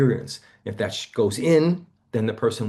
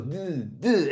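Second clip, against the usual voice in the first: stuttered duh; 6 semitones higher than usual. Shown as a demonstration. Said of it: "It goes".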